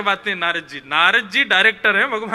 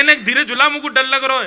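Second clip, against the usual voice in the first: loud, higher imitation of a frightened child-like plea; Lal Ji; 4 semitones higher, 5 dB louder than usual. Deity imagined pleading with the devotee pushing the swing, mock cry. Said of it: "ऐसे एक बार लाल जी बोल जाए".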